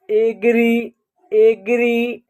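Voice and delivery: "एग्री" carefully sounded out twice with a long final 'ee'; teacher's careful demonstration of "एग्री"; sounded-out example. Shown as a demonstration. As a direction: model "एग्री" clearly, pausing between repeats. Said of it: "ए का उच्चारण अ के रूप में".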